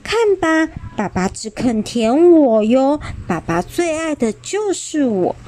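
put-on high proud child voice. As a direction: crow about being loved most. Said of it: "骄傲地说".

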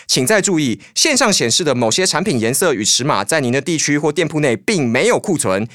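polite recorded-message voice; customer service voice. Acted. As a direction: read it like a store hotline recording.

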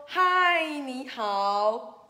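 big storybook hail; called-out greeting. Acted. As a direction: sing out the greeting. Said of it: "要跟五个人说".

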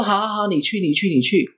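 high, repetitive giving-in; acted-out impatient "fine, go"; retold exasperated father. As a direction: play a dad throwing up his hands. Father gives in to sleepwalking child.

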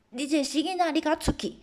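a hint of a furious father; mock angry yell. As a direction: bark at the brat to get out. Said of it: "就大喊".

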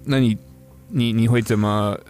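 ordinary talk, nothing marked

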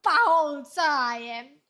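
loud, drawn-out outraged exclaim; outraged at the friend's sarcasm; indignant exclamation. Real, not acted. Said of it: "酸到爆炸".

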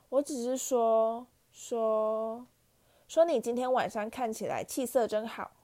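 slow halting stammer, caught out; 结结巴巴地圆场; flustered stammer. A narrator's reading. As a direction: stumble over the first words, then smooth it over. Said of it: "妙丽说，并狠狠瞪着皮皮鬼".

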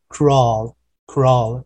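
CRAWL with the final L sounded; clear final L. Shown as a demonstration. Teacher showing learners the L in crawl, clear final L. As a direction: draw out crawl and land on its L. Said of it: "注意那个L的时候".

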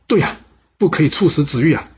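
the king shouts out to stop the execution; crying out. Acted. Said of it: "当场大叫一声". (楚王当场大叫)

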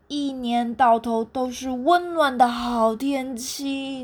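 slow, dreamy, leaning on 温; dreamy longing. Acted. 猴子向企鹅描绘家乡，缓慢梦幻地强调“温”字. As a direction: savour 温暖 as if picturing home. Monkey dreams of warm home.

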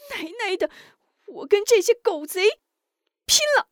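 very high, loud, rising to a shout; raging battle cry; furious outburst. Acted. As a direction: charge off in a rage. Grabbing a staff to fight.

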